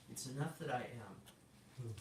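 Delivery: slow, unhurried, relaxed quote. Retold or imitated. God answering the praying man, very relaxed and slow. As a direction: say it slowly and at total ease. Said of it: "he's very relaxed".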